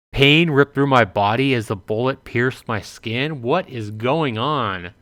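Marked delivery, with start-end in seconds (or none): 0.1-3.4 rising disbelieving question on skin; incredulous reread. Shown as a demonstration. Player rereading the shock line, incredulous. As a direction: reread the line as if you can't believe it. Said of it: "rereads in disbelief".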